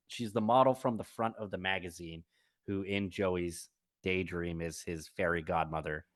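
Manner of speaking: ordinary talk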